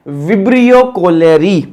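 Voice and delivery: slow, drawn-out विब्रियो कॉलेरी, each syllable clear; slow repeat. Shown as a demonstration. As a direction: spell out विब्रियो कॉलेरी slowly for the class. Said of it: "क्या है?".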